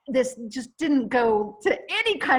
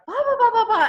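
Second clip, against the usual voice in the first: much higher and louder, a dismissive mock babble; mocking chatter; 11 semitones higher, 7 dB louder, faster than usual. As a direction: rattle off the blahs like someone who never stops talking. Mocking the client's nonstop talk.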